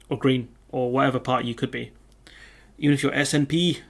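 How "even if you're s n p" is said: a quick attempt at a Scottish accent on "S N P". Shown as a demonstration. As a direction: slip into a light Scottish accent for one line. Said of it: "is that a decent Scottish accent".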